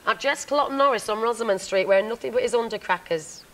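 broad northern Corrie voice; northern accent. Shown as a demonstration. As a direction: do your best northern Corrie line. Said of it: "in your best northern accent".

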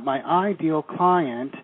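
"ideal" drawn out slowly for emphasis; stress on ideal. Shown as a demonstration. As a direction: lean slowly on the word "ideal". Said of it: "double underline the word ideal".

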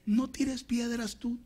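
high-pitched, drawn-out caution; urgent warning. Acted. Preacher warning believer not to retaliate, high urgent caution.

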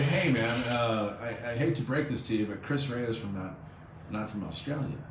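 hesitant, softening polite caller; polite correction. Retold or imitated. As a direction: retell a reluctant, courteous correction. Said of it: "you're being polite".

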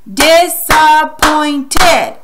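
"Disappointed" very slow and loud, in four beats; slow, by syllables. Shown as a demonstration. Teacher adding the last syllable, "Disappointed" slowly chopped apart. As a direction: stretch and punch each syllable of "Disappointed". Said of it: "we're gonna say it slowly".

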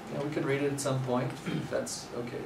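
softly easygoing reassurance; calm, gentle. Retold or imitated. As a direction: play him as unbothered and gentle. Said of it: "super calm about it, super gentle".

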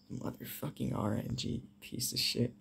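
hissed curses under breath; whispered cursing. Real, not acted.

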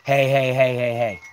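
loud chained hey calls; calling out. Real, not acted. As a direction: call the dogs back firmly. Calling dogs back.

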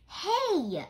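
high, loud warning shout; sharp warning call. Acted. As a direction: stop her before she bumps someone. Pulling friend from collision.

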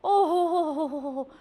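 hammy ho-ho laugh. Acted. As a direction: laugh it off theatrically. Snake woman laughs off question.

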